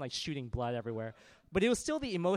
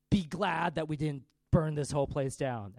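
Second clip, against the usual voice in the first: mock Viking threat; 7 dB louder than usual. Acts Vikings' parting threat.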